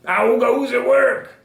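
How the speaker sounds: high, loud, drawn-out farmer's call. A narrator's reading. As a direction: call out slowly as the lazy farmer. Farmer's repeated call in story.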